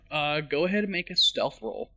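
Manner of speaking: whistly S on "stealth"; whistling s. Real, not acted. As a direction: let the S in "stealth" whistle sharply. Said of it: "This is a very whistly S".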